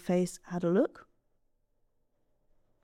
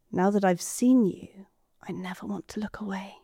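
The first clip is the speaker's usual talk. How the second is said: tender whisper. Acted. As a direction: whisper it as a promise of love. Bride's answer to proposal.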